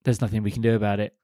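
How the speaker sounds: low, soft resigned mumble; meek resigned. Retold or imitated. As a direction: give in meekly, deflated. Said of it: "And everyone goes".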